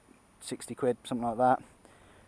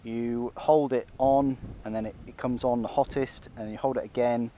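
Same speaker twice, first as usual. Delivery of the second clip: inside a motorcycle helmet. Real, not acted. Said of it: "hopefully you can hear me through, through the helmet".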